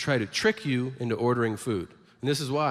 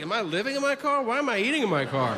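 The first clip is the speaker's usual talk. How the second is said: much higher, fast flustered questions; panicked realization; 9 semitones higher, faster than usual. Retold or imitated. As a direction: spiral into alarmed self-doubt. Panicked self-questioning customer.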